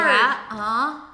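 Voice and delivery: loud mock-passionate dirty talk. Shown as a demonstration. Showing co-hosts what to say in bed, mock-passionate. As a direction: act out being in the moment, loudly. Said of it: "what are you saying".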